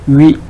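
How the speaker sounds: Huit modelled clearly with rising tune; demo syllable. Shown as a demonstration. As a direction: sound out Huit for the class. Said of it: "ça va former le huit".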